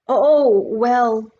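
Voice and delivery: loud, high flustered fumble. A narrator's reading. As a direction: stammer it out, caught off guard. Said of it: "suddenly flustered".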